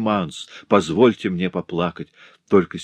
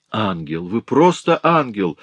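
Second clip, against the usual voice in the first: rapturous exclamation; 2 semitones higher than usual. Acted. Marquis exclaiming to his wife with passion, excited. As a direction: cry out in delighted admiration. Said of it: "воскликнул маркиз Дарвиль".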